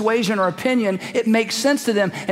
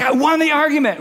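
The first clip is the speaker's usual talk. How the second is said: higher-pitched hollow boast; mock triumph; 6 semitones higher than usual. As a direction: crow mockingly about winning. Mimics proud arguer.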